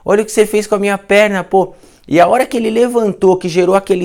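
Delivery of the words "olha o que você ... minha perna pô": amazed patient. Retold or imitated. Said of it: "Aí ele me chamou".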